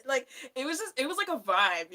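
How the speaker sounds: ordinary delivery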